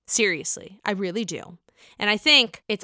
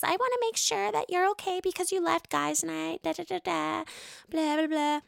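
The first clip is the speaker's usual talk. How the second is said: mock Raquel; 7 semitones higher, 7 dB quieter than usual. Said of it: "she approaches James and says".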